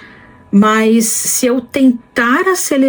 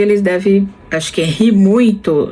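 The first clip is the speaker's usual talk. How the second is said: normal talking voice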